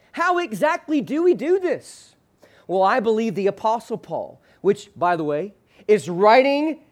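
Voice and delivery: ordinary talk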